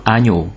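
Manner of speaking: agneau ending on a pure O; French agneau, eau as one O sound. Shown as a demonstration. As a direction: say agneau like "a-nyo". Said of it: "O-nak ejtjük".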